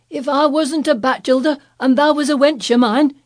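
high, loud furious yelling; angry old Yorkshireman. Acted. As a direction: bellow threats down the wall. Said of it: "he cried".

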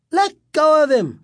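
high, urgent yell; scream. A narrator's reading. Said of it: "Sherry screamed".

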